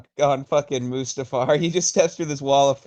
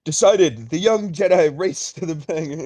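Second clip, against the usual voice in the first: Clone Wars announcer. Retold or imitated. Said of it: "do the Clone Wars announcer voice".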